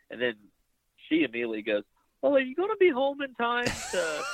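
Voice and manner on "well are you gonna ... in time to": high put-on voice, mimicking his wife; whiny mock wife, much higher. Mocking his wife's dinner plans, high whiny put-on voice.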